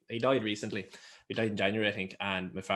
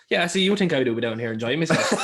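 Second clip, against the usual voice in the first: laughing punchline; 5 semitones higher, 8 dB louder than usual. Retold or imitated. Husband's punchline to his wife.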